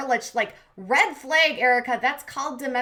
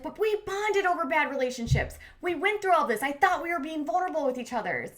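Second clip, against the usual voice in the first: retold hurt protest; 5 semitones higher than usual. Retelling Steph's hurt protest.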